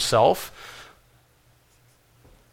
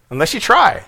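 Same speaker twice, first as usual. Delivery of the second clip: chuckling as he repeats it, a bit higher; laughing repeat; 6 semitones higher than usual. Real, not acted. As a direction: laugh it out lightly.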